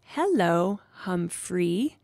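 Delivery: "Hello, Humphrey" slowly, word by word, rising; tentative, spaced "Hello... Humphrey"; careful attempt. A narrator's reading. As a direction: sound out "Hello, Humphrey" like a new learner. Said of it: "looked a little frightened, but she tried".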